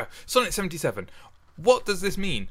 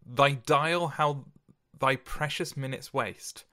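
slow, measured poetry recitation; poem reading; slower than usual. Acted. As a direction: read the sonnet with gravity. Reads sonnet aloud.

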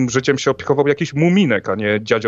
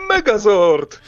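excited shout; 9 semitones higher, 4 dB louder, much slower than usual. Pretend. Power Rangers battle cry.

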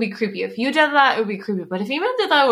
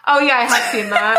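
startled laughing shout; 5 dB louder than usual. Real, not acted. Reacts to scary photo.

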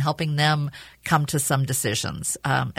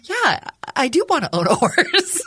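laughing; 8 semitones higher, 5 dB louder than usual. Retold or imitated. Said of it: "me going".

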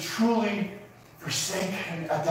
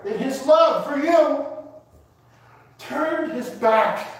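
impassioned preaching; 5 semitones higher, slower than usual. Real, not acted. Preacher swells with emotion.

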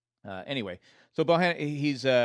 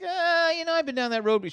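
voicing Maggie; 5 dB louder than usual. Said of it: "Maggie's like".

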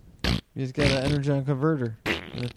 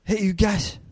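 Optimus Prime impression; 2 semitones higher than usual. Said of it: "can I do my impression of Optimus Prime?".

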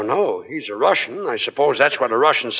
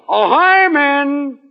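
very slow, much higher and louder call; 10 semitones higher, 4 dB louder, much slower than usual. Acted. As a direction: sing out to summon the duck from afar. Calling the duck.

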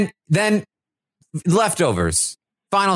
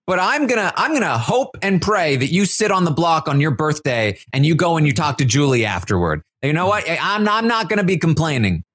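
mock rant. Michael ranting about who he wants gone, defiant. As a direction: list them off with spite. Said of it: "the rant".

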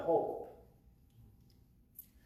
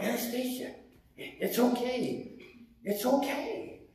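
retold consoling; 7 semitones higher than usual. Consoling the crying woman.

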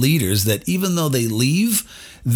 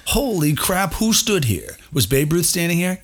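awed excitement; 7 semitones higher than usual. Retold or imitated. Retelling awe in the dugout.

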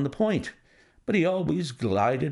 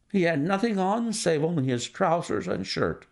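a higher, gentle niece's voice; lightly voiced young woman; 6 semitones higher than usual. Niece answering Holmes's question, lightly voiced higher. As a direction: answer Holmes politely, a little lost.

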